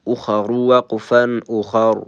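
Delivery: full, heavy R in اخر. Shown as a demonstration. Teacher repeating the rule's example, heavy R. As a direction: say both اخر with a thick R, the last one vowelless.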